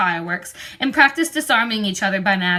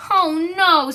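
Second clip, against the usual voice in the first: mock dismay; 8 semitones higher, 5 dB louder than usual. A narrator's reading. Hermione dismayed at cancelled exams.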